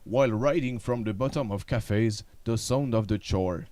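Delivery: low, dramatic trailer voice; monster truck ad. Acted. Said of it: "avec une voix de bande-annonce".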